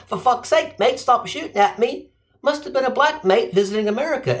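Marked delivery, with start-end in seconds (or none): 0.1-2.1 high-pitched mock Australian protest; Aussie accent. Aussie man pleading with cops, in mock Aussie accent. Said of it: "the Aussie man who said".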